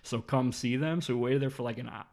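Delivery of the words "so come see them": mock store paging voice; raised, measured tannoy-style announcement; intercom announcement. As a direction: imitate a manager calling over the intercom. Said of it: "called out for Dave on the ins-, on the intercom".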